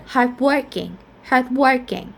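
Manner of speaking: "hardworking" with the weight on WORK; stress on work. Shown as a demonstration. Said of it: "we stress on the word work".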